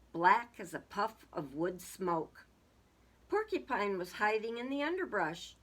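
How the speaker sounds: measured picture-book reading; storybook narrator; story narration. A narrator's reading. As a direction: read it out as a story for children. Reads a story aloud.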